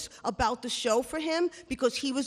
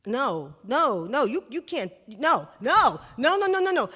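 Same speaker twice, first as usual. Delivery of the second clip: panicked refusal; 5 dB louder than usual. Retold or imitated.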